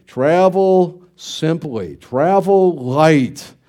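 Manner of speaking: slow, measured words of wisdom; the father's parting words, slow and deliberate; father's parting advice. Retold or imitated. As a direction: say it slowly like a father's blessing. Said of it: "my father's word as we were leaving".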